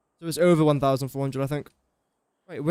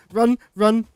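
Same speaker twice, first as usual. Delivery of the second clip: urgent shout; 5 semitones higher, 4 dB louder than usual. Real, not acted. Fleeing attacking creatures.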